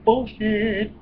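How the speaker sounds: high, loud scoff; scoffing retort. Real, not acted. Scoffing at the warning label, high and loud. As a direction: throw the word back at the label.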